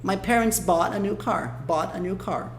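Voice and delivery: "bought" run into "a" with a barely-there T; linked light T. Shown as a demonstration. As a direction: slowly model "bought a new car" as "baw-da". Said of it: "O T conecta na palavra seguinte".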